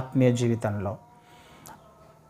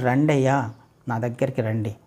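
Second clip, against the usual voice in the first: soft, low invitation; gentle call; 3 semitones lower, 4 dB quieter than usual. Acted. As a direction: coax them tenderly to come. God's call voiced gently. (మృదువుగా ఆహ్వానించడం)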